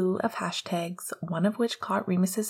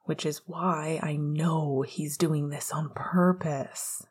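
groaning; 3 semitones lower, slower than usual. Acted. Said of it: "Remus groaned".

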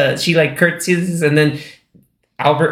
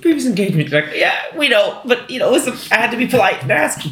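prim royal politeness; 9 semitones higher than usual. Retold or imitated. Voicing the royal wife politely.

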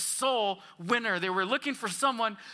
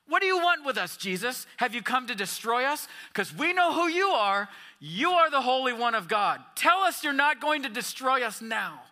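a higher, louder taunting demon; mocking demon; 3 semitones higher, 3 dB louder than usual. Pastor retelling the demon mocking Jesus, loud taunt. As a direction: sneer the questions back at Jesus. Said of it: "He's mocking the Son of God".

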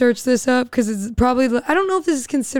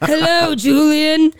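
goblin voice; 4 semitones higher, slower than usual. Pretend. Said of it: "I just talk like a goblin".

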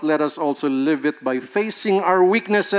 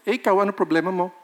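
mock accusing spouse; much faster than usual. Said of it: "always about him".

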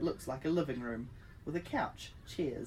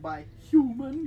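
robot voice; 9 semitones higher, 8 dB louder than usual. Retold or imitated. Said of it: "I was like".

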